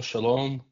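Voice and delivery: "Shalom" said shah-LOHM; "Shalom" closing a list of variants; Shalom pronunciation variant. Shown as a demonstration. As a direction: say "Shalom" with a long o in the last syllable. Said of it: "whether it's pronounced as".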